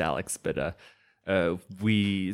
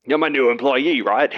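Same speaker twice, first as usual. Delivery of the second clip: put-on loud, higher dubious Greek accent; hammed-up, unconvincing Greek accent; bad Greek accent; 6 semitones higher, 8 dB louder than usual. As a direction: boss with a botched Greek accent. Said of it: "I intend on doing this accent".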